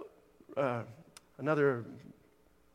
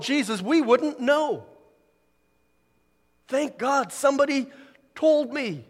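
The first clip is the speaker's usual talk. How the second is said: high, raised preacher's voice; urgent, elevated testimony from the pulpit; impassioned preaching; 8 semitones higher, 5 dB louder than usual. Real, not acted. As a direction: press it home to the congregation. Preaches to the congregation.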